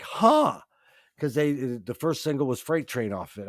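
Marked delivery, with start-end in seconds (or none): 0.0-0.6 puzzled huh. Retold or imitated. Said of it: "and I'm like".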